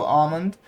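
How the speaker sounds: "almond" said as AH-mond with no L; "almond" with a silent L, ah-mond. Shown as a demonstration. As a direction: drop the L in "almond". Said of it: "do not, uh, pronounce the L".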